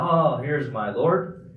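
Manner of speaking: slow, drawn-out sarcastic "oh"; feigned wonder, taking your time; mock discovery. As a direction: play at finding a god, tongue in cheek. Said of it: "kind of using sarcasm".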